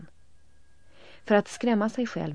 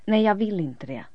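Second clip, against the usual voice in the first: loud refusal; 4 semitones higher, 9 dB louder than usual. A narrator's reading. Elin refusing.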